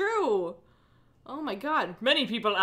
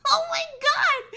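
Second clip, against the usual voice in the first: can't believe what you just read; real stunned exclamation; shocked outburst. Real, not acted.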